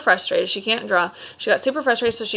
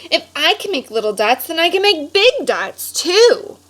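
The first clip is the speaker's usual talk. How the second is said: growing confidence; 8 semitones higher, 5 dB louder than usual. Acted. Vashti's confident realization.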